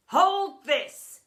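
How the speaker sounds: loud, firm command; ordering. A narrator's reading. Teacher handing his briefcase to pupil, barked order. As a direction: give it as a booming order. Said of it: "he ordered".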